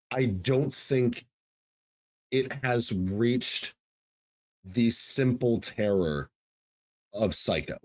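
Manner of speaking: slow, measured delivery in weighty fragments; solemn pronouncement. Real, not acted. Host pitches the film in one sentence, solemn pronouncement. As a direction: leave long pauses, dropping low at the end.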